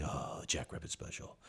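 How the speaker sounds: hushed, awed schoolyard whisper; low, breath-only murmur. Retold or imitated. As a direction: pass it on like a secret, very softly. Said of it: "almost in low whispers".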